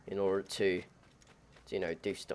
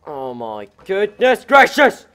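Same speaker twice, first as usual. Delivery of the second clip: slow, louder, hammed-up astonishment; startled exclamation; 3 semitones higher, 8 dB louder, slower than usual. Real, not acted. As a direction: stretch it out in mock shock. Startled by game event.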